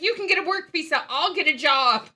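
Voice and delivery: fast, high, loud mock pep talk; excited quote. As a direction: rattle it off brightly, laughing through it. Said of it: "I'm like".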